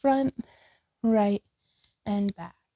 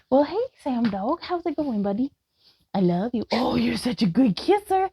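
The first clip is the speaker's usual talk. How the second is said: raised, sing-song pet talk to the dog; 2 semitones higher than usual. Real, not acted. Greeting and praising her dog.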